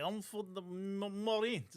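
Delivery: put-on botched American soldier in a foreign accent; mock foreign accent. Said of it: "that's not how we sound".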